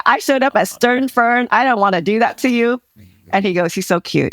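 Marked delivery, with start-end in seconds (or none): 0.1-2.8 much higher, sweet sorry to her husband; sweet apology. Retold or imitated. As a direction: coo the apology to him. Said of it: "And I said".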